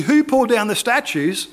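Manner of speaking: retold angry demand to find the culprit; angry crowd, acted. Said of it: "The people are so angry".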